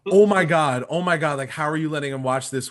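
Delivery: high, loud panicked mom, rushing at the end; imitating an outraged mother; freaking out. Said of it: "she starts freaking out".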